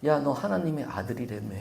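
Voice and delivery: quiet sneer. Acted. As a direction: murmur the jab with a sneer. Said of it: "이 말이 주고 있는 뉘앙스가".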